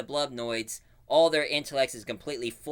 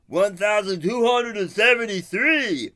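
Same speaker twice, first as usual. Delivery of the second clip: higher, loud salesman pitch; car-dealer voice; 8 semitones higher, 7 dB louder than usual. Retold or imitated. Used-spaceship dealer quoting a price, loud and high. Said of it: "and he says".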